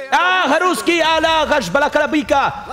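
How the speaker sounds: high, loud mock warrior challenge; hammed-up battle cry. Charging the enemy warrior, loud theatrical challenge. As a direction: challenge the foe like a knight of old.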